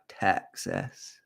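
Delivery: low, soft British deadpan; proper British accent. Retold or imitated. Nigel from GB telling people where he is from, proper British accent. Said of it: "the most proper accent".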